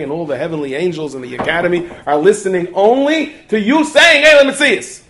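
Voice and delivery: a rebbe building up to a passionate shout; yelling rebbe. Retold or imitated. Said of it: "started to yell at him".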